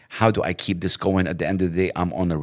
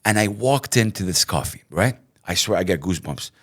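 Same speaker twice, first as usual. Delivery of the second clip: normal talking voice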